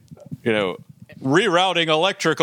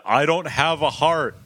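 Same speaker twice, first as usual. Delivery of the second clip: robot voice. Retold or imitated. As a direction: speak like the movie robot. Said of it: "It's so great when you".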